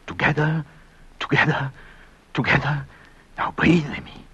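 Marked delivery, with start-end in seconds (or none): 0.1-2.8 "Together" evenly spaced, same beat each time; wiper-like repetition. Retold or imitated. Husband recalling wipers that night, "Together" in steady rhythm. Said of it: "When the windshield wiper said".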